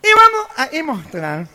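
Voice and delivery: discurso nasal imitado; presidente gangoso. Acted. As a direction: explica como orador gangoso. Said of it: "Se para en el atril y dice". (presidente gangoso dando su discurso)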